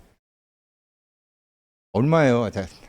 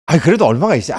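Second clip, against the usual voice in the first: pressing loudly; 4 semitones higher, 9 dB louder, much faster than usual. Retold or imitated. Customer pressing grandma for price.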